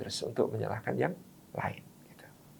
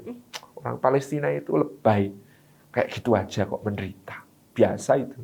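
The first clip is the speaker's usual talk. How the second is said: dismissive sneer; 3 semitones lower, 4 dB quieter than usual. Retold or imitated. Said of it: "Dia lihat".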